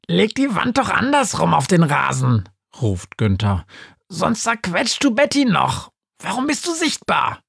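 high ghost voice calling out; Günther calling. Acted. Günther ruft Polly zu, hohe Geisterstimme. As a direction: call across the lawn up high.

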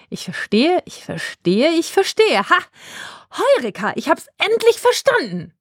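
from musing to a high, triumphant cry; building eureka. Acted. Befana finally figuring out Charlie's secret, rising to a triumphant eureka. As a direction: let the realisation climb into triumph.

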